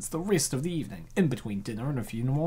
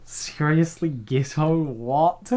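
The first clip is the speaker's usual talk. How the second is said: incredulous repeat; 3 semitones higher, 4 dB louder, much slower than usual. Real, not acted. Reader repeating the odd line in disbelief. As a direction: echo the phrase in disbelief.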